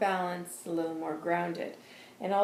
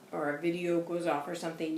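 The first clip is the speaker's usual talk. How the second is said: ordinary delivery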